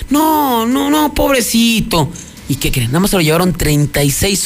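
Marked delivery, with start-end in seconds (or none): 0.1-2.1 pitying grandmother. Retold or imitated.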